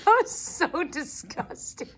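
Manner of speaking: slow, grossed-out groan; disgusted. Real, not acted. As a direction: say it like it made you sick. Grossed out after chewing sounds.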